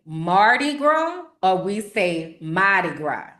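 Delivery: "Mardi Gras" slowly, then "Mardi Gras" as "mah-tee grah"; two pronunciations. Shown as a demonstration. Teacher shows the chat both local "Mardi Gras" forms. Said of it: "It depends on the accent".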